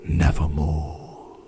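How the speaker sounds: low, slow croak of the raven; raven's reply. A narrator's reading. The raven answers the grieving narrator, low and croaking. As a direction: croak the one word, low and slow, like the bird. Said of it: "Then the bird said".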